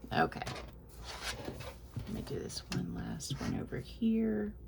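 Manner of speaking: words squeezed out on held breath; holding breath. Real, not acted. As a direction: speak while holding your breath. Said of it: "I'm holding my breath".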